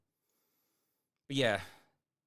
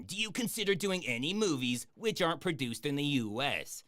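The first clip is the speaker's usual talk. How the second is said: raised, declaimed question read-out; higher-pitched, performed read-aloud; 5 semitones higher than usual. Acted. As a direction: read the viewer's question out in a higher put-on reading voice. Reads out a viewer's question.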